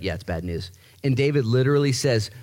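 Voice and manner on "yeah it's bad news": glum mutter. Retold or imitated. Friends voiced glumly.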